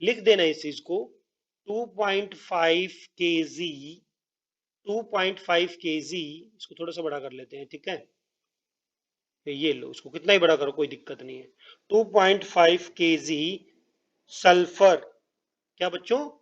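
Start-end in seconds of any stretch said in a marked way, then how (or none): 1.7-6.2 slow dictation. Real, not acted. Dictates figure while writing it. 11.9-15.0 slow dictation. Real, not acted. Dictates figure while writing it.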